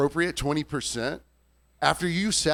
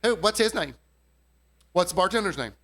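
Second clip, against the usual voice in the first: higher pushy Karen voice; Karen demanding; 5 semitones higher, 3 dB louder than usual. Retold or imitated. Customer calling out for the bartender. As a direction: nag for the bartender's name. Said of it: "I hear this lady going".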